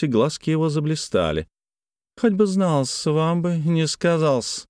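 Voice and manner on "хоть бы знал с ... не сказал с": high then slow, needling; spiteful jab. Acted. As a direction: relish the insult. Paklin's bitter jab.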